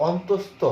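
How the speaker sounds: অন্তস্থ as "ontostho", every syllable sounded; full letter-name pronunciation. Shown as a demonstration. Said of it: "এরকম উচ্চারণ হয়ে".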